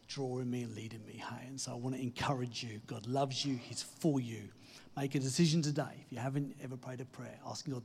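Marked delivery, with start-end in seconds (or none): 0.1-1.5 hushed, softer whisper. Real, not acted. Preacher tells of God's grace drawing him, whispered. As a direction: let it fall to a whisper. Preacher drops to intimate close.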